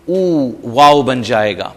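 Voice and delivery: او stretched into a long oo. Shown as a demonstration. Teacher drawing out the damma into waw. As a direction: hold the او sound. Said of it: "اسے لمبا کریں گے".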